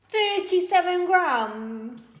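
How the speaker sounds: surprised. Real, not acted. Shocked at the scale reading.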